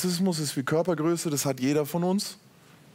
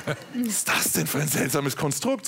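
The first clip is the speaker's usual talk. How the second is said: laughing self-quote. Retold or imitated. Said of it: "Und ich so".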